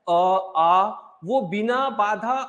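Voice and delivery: slow, open अ, आ with free airflow; drawn-out vowels. Shown as a demonstration. Teacher demonstrates open vowels to students, slowly drawn out. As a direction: let अ and आ flow out slowly. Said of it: "अ बोलते हैं ना".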